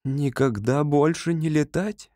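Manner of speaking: plain reading voice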